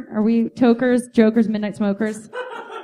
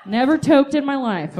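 mock denial. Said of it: "you guys are like".

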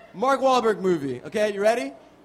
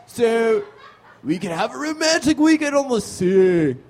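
Keanu Reeves. Acted. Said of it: "Can I play it as Keanu?".

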